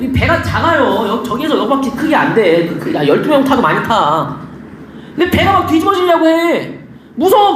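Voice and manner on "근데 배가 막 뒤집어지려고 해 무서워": higher-pitched mock panic; acted panic. Frightened disciples on a boat about to capsize, acted panic.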